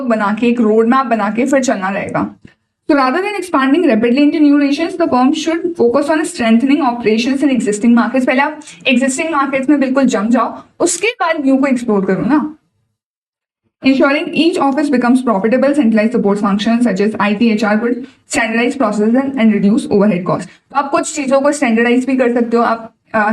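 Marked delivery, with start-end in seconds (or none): 2.9-8.3 slow, deliberate reading of an answer point; slow dictation read. Acted. Teacher reading a model answer to students, slow and deliberate. 13.8-20.5 slow, deliberate reading of an answer point; slow dictation read. Acted. Teacher reading a model answer to students, slow and deliberate.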